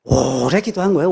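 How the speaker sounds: 오래 elongated to show how long she prayed. Shown as a demonstration. Preacher explaining the word literally, 오래 stretched right out. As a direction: hold the first vowel of 오래 very long. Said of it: "이 오래라고 하는 말은요".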